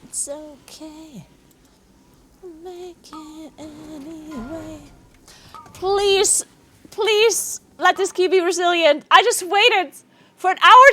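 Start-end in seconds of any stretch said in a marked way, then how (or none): 0.0-4.8 very soft, slow and resigned; barely-there sigh of defeat; defeated murmur. Real, not acted. Key failing, resigned to it.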